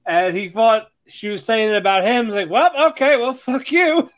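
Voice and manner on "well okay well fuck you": mock offended retort. Acted reply of insulted man.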